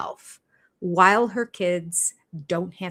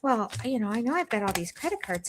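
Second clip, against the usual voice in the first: a lightly voiced, softer ditzy Robin; mock clueless wife; 4 semitones higher, 5 dB quieter than usual. Mocking Robin handing bills to Cody, a soft ditzy imitation. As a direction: play her as lost and helpless with bills. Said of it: "so she probably does that now".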